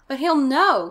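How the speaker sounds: high, loud anxious protest; acted boyish panic; cried out. A narrator's reading. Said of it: "Casey cried".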